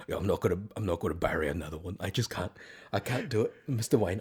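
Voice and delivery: hushed, lightly tearful British impression; put-on British accent, a touch of grief; Michael Caine. Imitating comedians joking as Caine apologising to Wayne, mildly tearful British accent. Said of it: "they're joking like".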